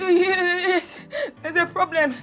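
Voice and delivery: tearful plea. Acted. Tearful plea about dying brother.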